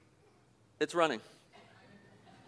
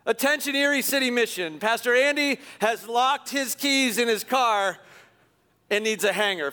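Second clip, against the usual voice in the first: mock announcement. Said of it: "He just, clears throat".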